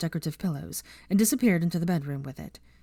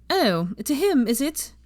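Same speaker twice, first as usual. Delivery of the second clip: sneering higher voice; Pansy, mocking; 8 semitones higher, 4 dB louder, slower than usual. A narrator's reading. Pansy mocking Hermione's defence of the elf, sneering. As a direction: tease her with a sneer.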